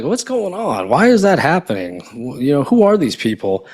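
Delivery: imitated incredulous questions; mock bewilderment. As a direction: voice a baffled crowd asking why. Voicing everyone's puzzled reaction.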